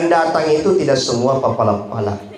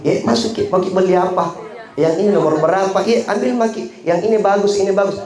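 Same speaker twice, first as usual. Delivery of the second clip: higher-pitched, welcoming shopkeeper patter; lively mock sales pitch; eager seller; 5 semitones higher than usual. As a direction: usher the customer in eagerly. Acted eager seller serving customer.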